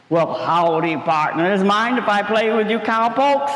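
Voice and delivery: disguised potato pretending to be a cowboy; lightly voiced cowboy. Potato in cowboy disguise greeting the friends, lightly cowboy voiced. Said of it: "my really cool cowboy costume".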